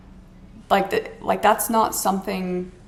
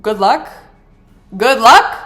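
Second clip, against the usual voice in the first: sarcastic taunt; 8 dB louder, slower than usual. Real, not acted. Taunting game opponent.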